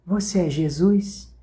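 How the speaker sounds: slow, wondering question to the helper; old woman asking. Acted. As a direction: ask it gently, a little in awe. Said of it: "a avó perguntou assim".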